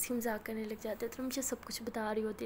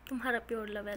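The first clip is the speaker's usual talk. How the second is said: laughing mockery. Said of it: "इतना ज़्यादा हंसती हैं".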